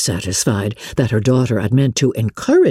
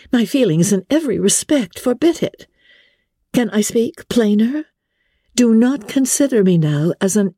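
put-on higher, firm young woman refusing; earnest Elizabeth; 8 semitones higher than usual. A narrator's reading. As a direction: insist she means every word.

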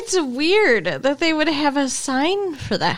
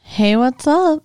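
imitating the theme intro; 5 dB louder, slower than usual. Carol echoes the theme greeting.

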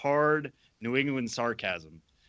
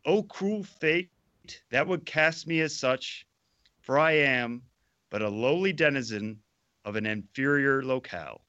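tragic heroine; 2 semitones higher than usual. Acted. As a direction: wail it like a doomed heroine. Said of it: "the appropriate level of fervor".

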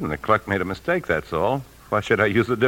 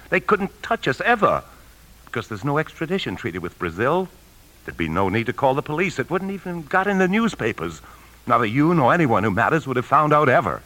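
feverish justifying; 7 semitones higher than usual. Acted. Husband rationalises escape to Brazil.

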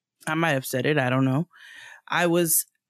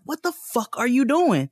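higher, sharp angry demand; angry retort; 6 semitones higher than usual. Retold or imitated. To a stranger at the bodega who grabbed her arm, sharp angry demand. Retelling confronting man at bodega.

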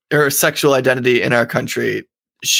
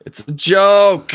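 slow, higher, louder mocking repeat; mocking echo; 5 semitones higher, 4 dB louder, much slower than usual. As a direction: throw his excuse back, drawn out. Mocks co-host's excuse back.

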